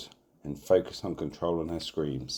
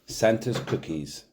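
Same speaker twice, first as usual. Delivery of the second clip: muffled voice; 6 semitones higher, slower than usual. Acted. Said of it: "says in a muffled voice".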